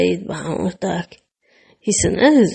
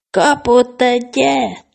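calling out; 5 semitones higher, slower than usual. A narrator's reading. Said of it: "kiáltotta Misi".

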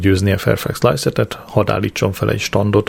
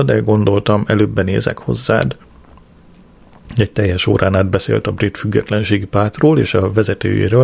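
usual speaking voice

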